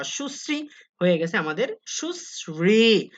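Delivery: সুশ্রী said as shusri, slowly; সুশ্রী with an sr cluster; teacher models সুশ্রী slowly; slow pronunciation demo. Shown as a demonstration. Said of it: "রি থাকলে দন্ত স হয়ে যায়".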